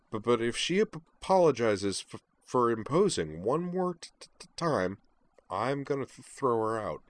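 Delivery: stammered playful warning; mock-threatening stutter. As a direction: stumble through a teasing threat. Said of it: "Kate's stutter".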